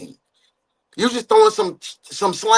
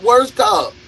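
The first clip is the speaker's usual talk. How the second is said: shouted. Real, not acted. Mock cop ranking, shouted.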